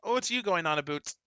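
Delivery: mock Canadian accent. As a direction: put on a comic Canadian lilt. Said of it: "rather see a Canadian come in with".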